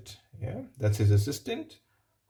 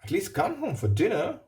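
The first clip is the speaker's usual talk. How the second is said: lightly voiced hopeful invitation, a touch higher; hopeful nephew; 4 semitones higher than usual. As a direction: coax the grumpy uncle gently. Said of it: "said Fred".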